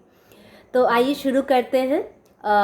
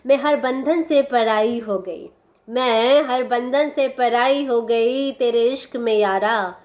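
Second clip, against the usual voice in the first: poem recitation. Acted. Reciting a love poem at sister's request, measured poetry recital. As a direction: recite each line deliberately, letting the last word linger. Recites the poem's final verses.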